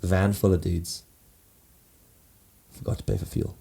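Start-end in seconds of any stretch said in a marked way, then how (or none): 2.7-3.6 breathy whisper of a confession. Real, not acted. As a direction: hush it like a guilty secret. Confessing the punchline.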